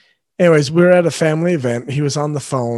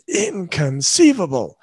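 light take on a movie villain's exclamation; Vizzini catchphrase; 3 semitones higher than usual. Retold or imitated. Quoting a film villain's catchphrase to listeners, lightly imitated Vizzini. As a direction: stretch it out like a quoted catchphrase. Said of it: "when Vizzini, he always says".

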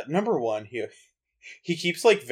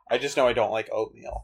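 whisper; 3 semitones lower, 5 dB quieter than usual. Real, not acted. Whispered joke about oatmeal.

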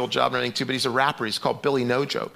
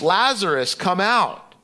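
loud call; 5 semitones higher, 4 dB louder, slower than usual. Acted. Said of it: "Jesus called in a loud voice".

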